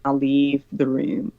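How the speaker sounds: slow, lightly prim exit line; slow and huffy, half-hearted; mocking a friend's polite tone, slow and huffy. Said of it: "I would like to say".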